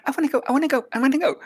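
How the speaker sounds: put-on high, loud childish pleading; whiny kitten begging. Kitten begs the witch to come along, high and whiny. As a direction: beg like a small kitten.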